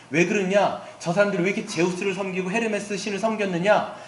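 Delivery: normal talking voice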